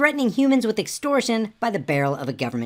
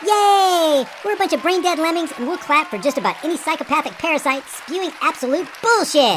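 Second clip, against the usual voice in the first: mock cheering crowd; 7 semitones higher than usual. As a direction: play the clapping lemming, mockingly. Mocking the cheering debate audience.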